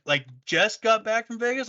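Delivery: high questioning repeat; disbelieving, pitch up; mock disbelief; incredulous echo. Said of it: "They're like".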